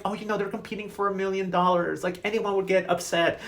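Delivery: mock the host smoothing it over; mock placating excuse. Acting host excusing a contestant.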